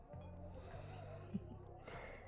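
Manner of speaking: very soft, high little laugh; faint teasing laugh; teasing chuckle. Acted. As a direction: giggle quietly at their unease. Teasing after unsettling hints.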